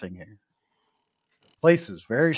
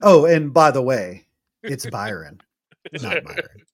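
lightly pointed politeness, opening big and easing down; nice-nasty; 5 dB louder than usual. Retold or imitated. Club owner correcting a customer's name, mildly nice-nasty. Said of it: "doing it as nice, nasty as humanly possible".

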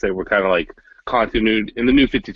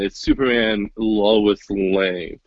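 unenthused; 2 semitones lower, much slower than usual. Real, not acted. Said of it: "You sound so happy about that".

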